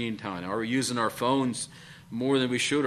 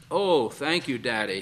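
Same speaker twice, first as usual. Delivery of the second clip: beaming thanks. Acted.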